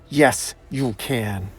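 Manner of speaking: slow, deliberate command; menacing insistence. Acted. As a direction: give the order one slow word at a time. Slade orders nurse to comply.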